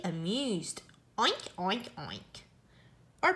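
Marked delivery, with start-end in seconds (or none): 1.2-1.9 light playful oinks; pig oinks. Pretend. Amused pig sound in book. 2.0-2.4 a much lower, much softer last oink; fading pig oink. Pretend. Amused pig sound in book.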